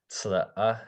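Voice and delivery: "sla-a" with a glottal catch mid-vowel; glottalized syllable. Shown as a demonstration. Teacher repeating "sla-a" for the student, glottal catch. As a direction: catch the breath inside "sla-a". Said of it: "Kind of that".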